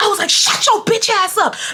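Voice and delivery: mock, very high, wild, furious shriek. Retelling a fight after a girl yelled at them, retelling an angry scream. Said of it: "So I went AWOL".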